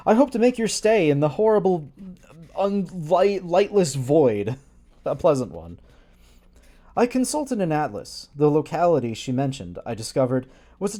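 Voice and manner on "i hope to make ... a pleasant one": mock ominous read. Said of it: "large blank space an empty one".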